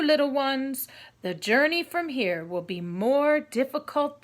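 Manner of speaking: gentle but loud guardian voice; wise tiger. Acted. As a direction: speak as the wise great tiger. Tiger voice speaking to children.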